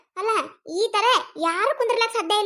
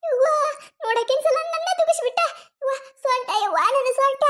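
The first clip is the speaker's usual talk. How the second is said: crying in pain; 5 semitones higher than usual. Acted. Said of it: "ಯಾಕ್ ಅಳ್ತಿ?".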